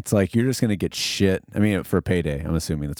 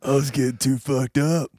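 Stone Cold voice; 6 semitones higher than usual. Retold or imitated. Voicing Stone Cold drunk.

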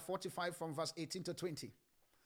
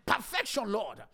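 imitated shouting; 4 dB louder, slower than usual. Preacher mimicking believers demanding perfection, shouting. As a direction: shout it like a pleading congregation. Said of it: "We are shouting".

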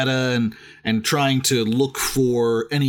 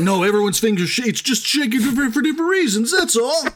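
higher, quicker mock protest over the finger; pitched-up indignant comeback, hammed up; mock defensive author; 10 semitones higher, faster than usual. Friend mocks the author's defence of shaky fingers, in a high indignant mock voice.

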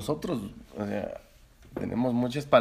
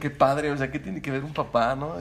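puzzled foreigner; 3 semitones higher, 4 dB louder than usual. Retold or imitated. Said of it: "de otro país dice".

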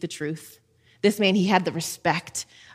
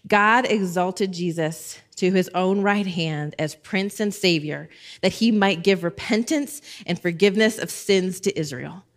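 scripture reading. Acted.

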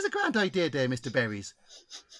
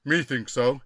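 caricatured spirit chief; 4 semitones lower than usual. Acted. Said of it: "Chief Hanging Berry, spirit guide".

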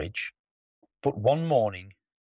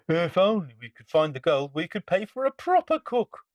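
pirate chief voice; 7 semitones higher than usual. Acted. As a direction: call it out like a pirate.

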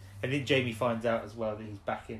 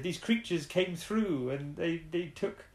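worried father's account; 6 semitones higher than usual. Retold or imitated. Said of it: "And then they said".

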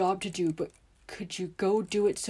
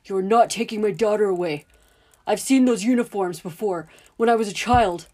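loud, higher, furious tirade; angry shouting; 4 semitones higher, 11 dB louder than usual. Acted. Father yelling at the men to protect his daughter. Dudley confronts the uniformed men.

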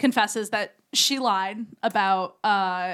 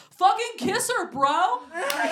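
higher mock yell from across the house; retold yell; 8 semitones higher, slower than usual. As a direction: call it out like a pushy brother. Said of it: "Emmett yells from the house".

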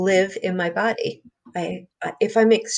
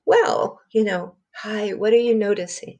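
spa voice. Shown as a demonstration. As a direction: gently ask like a spa attendant. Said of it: "In a spa voice".

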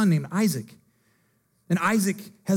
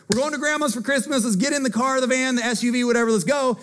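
excited; 4 semitones higher than usual. Retold or imitated. Excited family heading out.

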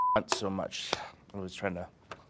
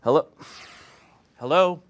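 Van Gogh on the phone; 6 semitones higher, 7 dB louder than usual. Pretend. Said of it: "This is Vincent Van Gogh answering his cell phone".

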